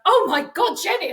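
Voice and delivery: a high, loud gasp of alarm from mum. Retold or imitated. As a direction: imitate mum startled and frightened. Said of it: "And she's like".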